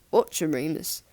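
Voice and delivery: put-on a light Liverpudlian accent, gruff. Teacher catching a pupil asleep, light gruff Liverpudlian accent. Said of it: "A gruff, Liverpudlian accent".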